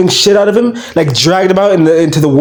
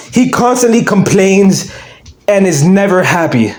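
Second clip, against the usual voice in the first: ordinary talk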